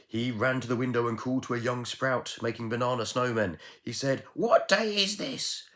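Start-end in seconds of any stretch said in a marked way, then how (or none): 4.3-5.7 much higher, loud slow call; excited call. Acted. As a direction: call out eagerly from the window. Miser calls from window.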